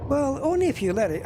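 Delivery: talking back to a game tip, indignant; indignant retort. Real, not acted.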